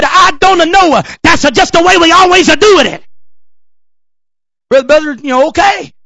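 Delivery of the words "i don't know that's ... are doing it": mock Italian accent with added vowels on word endings; hammed-up Italian-accented reply. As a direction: imitate an Italian tour guide, sing-song. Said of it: "he said it was an Italian man".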